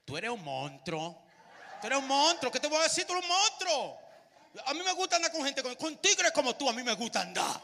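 put-on playful Dominican accent, laughing. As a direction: hype up a buddy in a Dominican accent. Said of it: "Los dominicanos".

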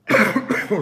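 sharp dry cough; coughing fit. Real, not acted. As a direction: cough hard into the mic. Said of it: "scusate la tosse".

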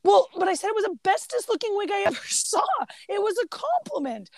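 high, quick mock-child protest; protesting boy. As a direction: imitate a boy defending himself. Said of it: "And he's like".

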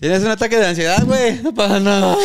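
mock calm. Mocking her fake calm.

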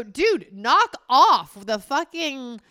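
half-acted telling off; mock scolding. Wife acting out scolding her husband: slow mock stern telling-off. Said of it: "overtly criticize you and go".

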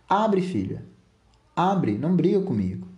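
high, insistent acted appeal; pleading father. Father at his daughter's locked door, pleading. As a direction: beg urgently through a closed door.

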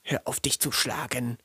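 hushed warning; whispering. Retold or imitated. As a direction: whisper him to stop.

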